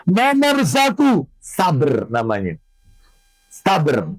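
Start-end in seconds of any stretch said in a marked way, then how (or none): 1.4-4.1 Sabr said as "sabər", short a, no vowel between b and r; careful pronunciation. Shown as a demonstration. Preacher teaching the ladies the name, clear pronunciation. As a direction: stress Sabr on the first syllable, "sa-bər", slow and clear. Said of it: "Jadi pakai sa".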